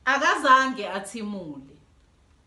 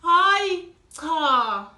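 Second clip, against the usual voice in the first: louder teasing no; playful no; 4 semitones higher, 6 dB louder than usual. Acted. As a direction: tease Dudu back. Aunt's final no, teasing.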